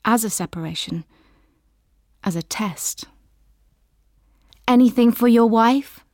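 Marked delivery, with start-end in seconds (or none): 4.7-6.0 stewardess asking, higher and louder. A narrator's reading. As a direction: lift the voice like a stewardess offering service. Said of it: "the stewardess's voice says".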